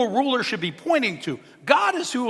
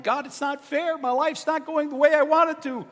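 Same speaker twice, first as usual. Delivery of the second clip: mock complaint; 7 semitones higher than usual. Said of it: "And so we complain".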